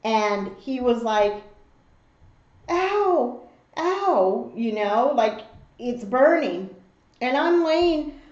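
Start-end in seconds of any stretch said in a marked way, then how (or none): 2.7-4.5 higher, mock cry of pain; two short pretend ows; imitated pained ow. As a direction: mimic a child getting burned. Imitates son getting burned by noodles.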